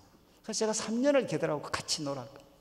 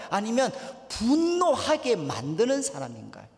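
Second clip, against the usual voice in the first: raised, emphatic pulpit voice; forceful preaching; 5 semitones higher, 4 dB louder, slower than usual. Acted. Preacher putting James's question to the congregation, forceful preaching. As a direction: press each question on the congregation.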